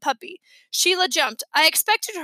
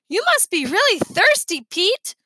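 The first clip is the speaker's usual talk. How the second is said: lightly voiced old man; 6 semitones higher, 5 dB louder than usual. Old man teasing Pete.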